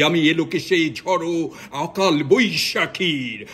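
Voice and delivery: rousing, declaimed poetry recital with swelling peaks; poem recitation. Acted. Reciting Nazrul's Bidrohi to his viewers, declaimed and rousing. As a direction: proclaim each line like a rebel's vow.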